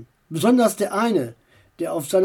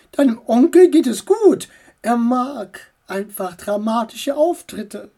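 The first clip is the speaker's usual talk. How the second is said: aunt voice; 3 semitones higher, 3 dB louder than usual. Acted.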